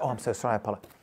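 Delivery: acted calm sorry; calm apology. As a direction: apologize meekly and quietly. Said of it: "So I gotta be calm".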